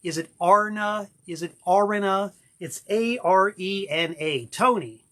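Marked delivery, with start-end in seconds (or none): 0.4-1.1 Arna said as "AR-nuh", stressed on the first syllable; two-syllable AR-na. Shown as a demonstration. Host trying another surname guess, Arna pronounced AR-nuh. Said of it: "How do you pronounce your last name". 1.6-2.3 Arena said as "AR-ih-nuh"; first-syllable stress. Shown as a demonstration. Host puzzling over his pal's surname, Arena pronounced AR-ih-nuh. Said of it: "How do you pronounce your last name".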